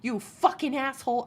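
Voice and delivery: fast, heated retelling of the rant; mock-furious rant at the man; retold angry rant. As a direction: rattle it off like you're still mad. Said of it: "I was very angry".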